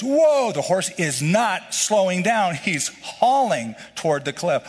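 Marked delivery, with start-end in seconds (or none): 0.0-0.5 high, loud shouted "Whoa!"; panicked shout. Retold or imitated. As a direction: yell it at the runaway horse. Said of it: "Pulls on the reins".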